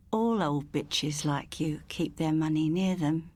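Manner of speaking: low, slow, contemptuous threat; menacing burglar. Acted. Burglar threatening the old woman in bed, low and slow. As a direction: sneer it down at her, slow and low.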